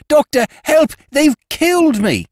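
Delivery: high, desperate cry over the phone; dying man's plea. A narrator's reading. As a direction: beg for help with failing breath.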